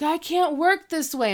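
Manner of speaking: high-pitched imitation of an actor's tantrum; mock diva outburst. Eric storming off the set, mock diva outburst. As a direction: retell a huffy walk-off, pitched right up. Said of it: "storms off the set".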